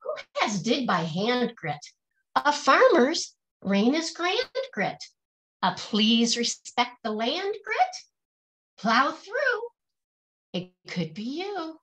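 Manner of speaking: rhythmic, lilting picture-book verse; reading to children. Acted. Teacher reading a rhyming picture book aloud to her class, lilting and rhythmic. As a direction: bounce each rhyme for the kids, then land the refrain.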